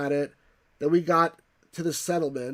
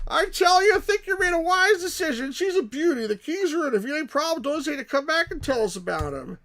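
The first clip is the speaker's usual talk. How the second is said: high, loud Texan salesman closing a sale; hammed-up Texan dealer, loud and high; Texan accent; 13 semitones higher, 9 dB louder than usual. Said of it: "like, a Texan accent".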